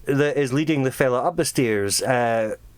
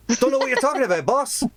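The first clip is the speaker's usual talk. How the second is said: high-pitched henchman protesting; raised, defensive underling voice; guard to boss; 9 semitones higher, faster than usual. Acted. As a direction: play the clueless guard answering the boss. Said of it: "the guards look at him and go".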